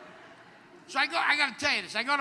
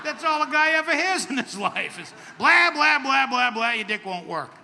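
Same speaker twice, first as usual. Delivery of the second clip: rising rant; 3 semitones higher, 5 dB louder than usual. Real, not acted. Ranting about guys' hearing.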